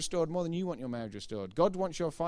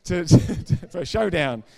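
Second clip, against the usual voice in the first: laughing, much louder, words breaking up; laughing through words; 3 semitones higher, 12 dB louder than usual. Real, not acted. Preacher laughing at his own Southern phrase, loud and laughing. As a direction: giggles at his own joke mid-phrase.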